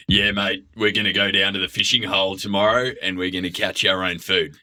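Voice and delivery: put-on blokey Australian; hammed-up Australian outdoorsman; manly Aussie accent. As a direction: sound like a manly Aussie mate. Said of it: "put on an Aussie accent, you try and sound more manly".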